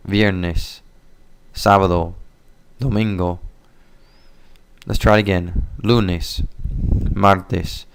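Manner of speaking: each day said clearly, pausing for repetition; model pronunciation. Shown as a demonstration. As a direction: model the days for students to repeat. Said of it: "Escuche. Listen".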